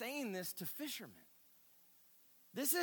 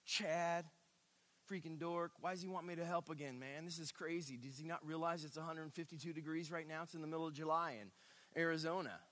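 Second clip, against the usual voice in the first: griping; 3 dB quieter than usual. Retold or imitated. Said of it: "our griping".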